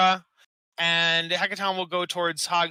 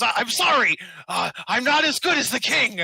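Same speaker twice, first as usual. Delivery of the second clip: lightly voiced sheepish apology, pitched up; apologetic character; 4 semitones higher than usual. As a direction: own up to failing, a touch higher. Game master voices failed, apologetic Schmore.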